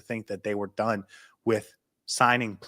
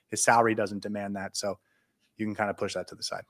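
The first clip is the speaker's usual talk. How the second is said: winded from talking fast; running out of air mid-sentence; out of breath; 2 semitones lower, 5 dB quieter than usual. Real, not acted. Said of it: "I'm gonna run out of breath".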